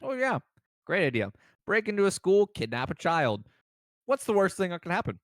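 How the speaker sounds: sarcastic, through a mouthful of pizza; mouth full. Acted. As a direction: talk around a bite of pizza, high and loud. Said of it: "speak up with a mouthful of pizza".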